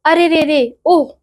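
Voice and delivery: quick high groan of pain; sharp groan. A narrator's reading. Boy pretending stomach pain groans sharply to mother. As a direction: groan out suddenly as if the belly hurts. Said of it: "तेजी से कराकर".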